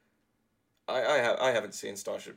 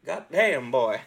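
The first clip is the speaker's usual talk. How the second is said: hyped-up exclamation; 4 semitones higher, 8 dB louder, slower than usual. Real, not acted. Hyping up the freestyle.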